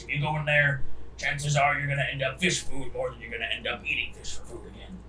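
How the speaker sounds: lightly voiced captain's briefing, brisk in places; ship captain. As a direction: warn the passengers as their captain.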